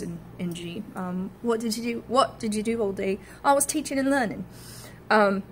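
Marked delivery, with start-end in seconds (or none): 1.4-4.4 Cockney, dropped g. Shown as a demonstration. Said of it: "the G at the end of teaching and learning".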